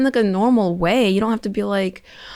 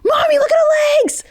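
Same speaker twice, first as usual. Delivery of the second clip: put-on a high, breathy child's loud whisper; whisper-shout it like a curious small child; imitating a little kid pointing something out, high and whispered; 6 dB louder than usual. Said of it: "When the little kid's like".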